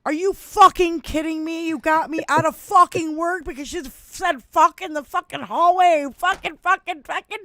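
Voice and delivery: high, loud furious swearing; dad screaming. Retold or imitated. Dad yelling at the principal, furious and loud. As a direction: yell it like an enraged father at the principal. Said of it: "my dad screaming at the principal".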